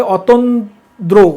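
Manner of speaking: অতন্দ্র said slowly and carefully; slow correct form. Shown as a demonstration. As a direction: stretch out অতন্দ্র so each sound is clear. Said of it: "অতন্ত্র না".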